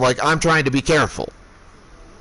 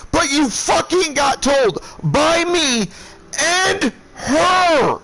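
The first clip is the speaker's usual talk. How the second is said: hammering rage, pitched far up; furious shouting tirade; 9 semitones higher than usual. Retold or imitated. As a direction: lay into him with every word. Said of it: "I am so pissed".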